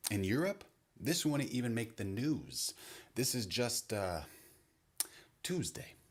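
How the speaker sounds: a European finding nothing shocking; calm brutal European. Retold or imitated. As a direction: shrug it off as an ordinary Tuesday. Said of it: "brutal because it's calm".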